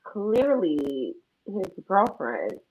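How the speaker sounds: very slow smug drawl. Acted. Fake girlfriend taunting the caller, slow and smug. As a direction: savour each word.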